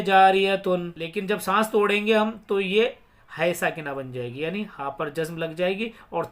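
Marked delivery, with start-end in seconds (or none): 0.0-0.9 जारियतुन with "-tun" fully sounded; जारियतुन unshortened, closing on n; full ending. Shown as a demonstration. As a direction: pronounce t and final n in जारियतुन. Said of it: "हालांकि होती ये है".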